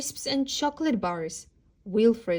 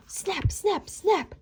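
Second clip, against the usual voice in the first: from a whisper to a high snapping cry; snapping jaws; 9 semitones higher, slower than usual. A narrator's reading. Wolf lunging at the dentist, snapping. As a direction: bite the air with each snap.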